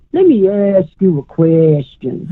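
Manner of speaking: a hint of a deliberate old-fashioned professor posing a question. Medium retells her spirit guide the professor, in a lightly slowed professor voice. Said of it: "that's kinda how he talked".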